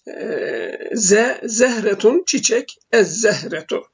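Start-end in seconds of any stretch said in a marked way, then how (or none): 2.9-3.8 "ez-zehretu" with a held double Z; doubled Z. Shown as a demonstration. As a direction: hold the Z at the join of "ez-zehretu". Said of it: "şeddeli olarak okunuyor".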